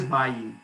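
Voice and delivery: bayou said as BY-oo; right pronunciation. Shown as a demonstration. Host conceding to the objector, bayou with final OO. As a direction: end bayou on a clear OO. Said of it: "that's the right way to say it".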